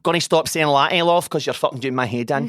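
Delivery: loud exasperated plea; mock exasperated. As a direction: beg them to stop, at the end of your tether. Acted exasperated plea to customer.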